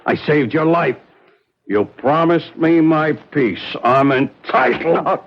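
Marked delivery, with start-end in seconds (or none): 3.8-5.2 tearful plea. Acted. Pleading for his share.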